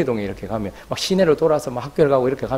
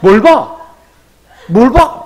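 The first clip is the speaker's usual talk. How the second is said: loud, high retold challenge to onlookers; acted belligerent yell; mock cursing; 6 semitones higher, 7 dB louder, much slower than usual. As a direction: lash out at bystanders, hammed-up. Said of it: "욕을 막 하더니".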